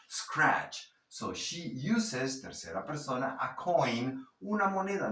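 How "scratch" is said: scratch with a crisp final "ch"; pronounced CH. Shown as a demonstration. Teacher insisting on the che, scratch with audible ch. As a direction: finish scratch on a full ch. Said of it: "Esa che tienes que pronunciarla".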